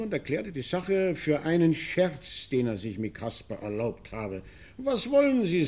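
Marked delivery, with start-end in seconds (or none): 4.8-5.7 raised, mocking quote; tossing off his scornful excuse; quoting Wessenich. Retelling Wessenich's joke in a raised mocking voice. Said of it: "sagte er".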